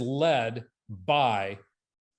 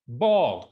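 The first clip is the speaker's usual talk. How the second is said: Bawled repeated, punched louder; stress on Bawled; 6 dB louder than usual. Real, not acted. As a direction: hit the word Bawled. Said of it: "bawled my eyes out".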